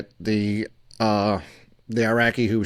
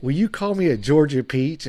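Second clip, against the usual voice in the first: put-on higher, coy Georgia girl voice; mock Georgia belle; 5 semitones higher than usual. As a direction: fish for the Georgia peach line. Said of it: "she's got this Georgia accent".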